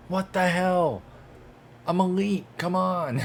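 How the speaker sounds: high, loud, indignant yelps; loud, high protest at the screen; outraged outburst. Real, not acted. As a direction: blurt it out in real disbelief. Outraged at being cut.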